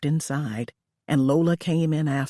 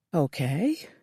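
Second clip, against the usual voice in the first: breathed. A narrator's reading. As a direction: breathe the word out. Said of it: "Lola breathed".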